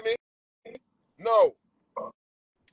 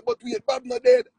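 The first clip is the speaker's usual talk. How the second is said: high, louder startled cry; realising Bob is still alive; sudden realisation; 5 dB louder than usual. Retold or imitated. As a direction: blurt it out as it dawns on you.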